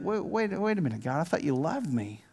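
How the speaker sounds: softly hurt questioning; halting, quiet disbelief aimed at God; puzzled, mildly wounded plea; bewildered protest. Acted. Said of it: "You're like".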